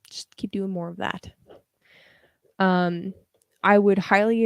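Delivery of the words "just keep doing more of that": soft unvoiced whisper. Real, not acted. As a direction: whisper it close. Advice to viewer.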